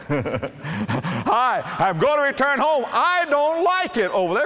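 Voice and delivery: whiny pig. Acted. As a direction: squeal it up high like a homesick pig. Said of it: "Pig says".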